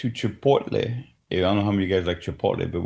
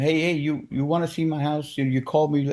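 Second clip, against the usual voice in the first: imitating a strong Indian accent, pitched a bit higher; a light take on an Indian landlord's accent; mock Indian accent on the phone; 5 semitones higher than usual. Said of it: "real strong accent".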